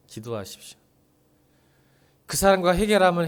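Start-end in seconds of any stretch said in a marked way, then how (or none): 0.1-0.8 hushed urging. Acted. Pastor quietly urging the congregation to pray, hushed. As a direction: drop to a soft, quiet plea on 기도하십시오.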